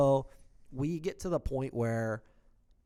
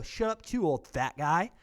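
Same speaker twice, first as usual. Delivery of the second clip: high, loud yell at him; a kid shouting back; twelve-year-old yelling at a big man; screaming retort; 6 semitones higher, 6 dB louder, slower than usual. Retold or imitated. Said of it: "And I go".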